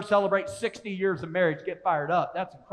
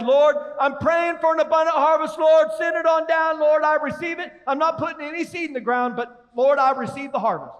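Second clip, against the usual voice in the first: hammed-up pleading prayer, pitched higher; mock pious prayer; 5 semitones higher than usual. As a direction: pray like a showy, lazy believer. Mock prayer of lazy farmer.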